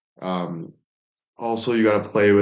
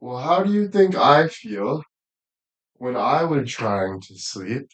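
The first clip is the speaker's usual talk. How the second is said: playful teasing; 3 semitones higher than usual. Real, not acted. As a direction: tease her like a grumpy roommate. Teasing the hamster directly.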